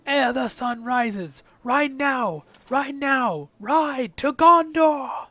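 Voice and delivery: slow, building to a high loud shout; rally the army, building to the final cry; battle speech. Retold or imitated. Streamer reciting the famous movie charge speech, building to a shout. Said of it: "that awesome line from the movie".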